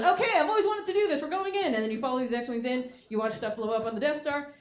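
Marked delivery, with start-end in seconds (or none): 0.0-1.7 much higher, gleeful pilot; eager pilot. Retold or imitated. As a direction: dive in with boyish glee. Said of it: "And Rex goes".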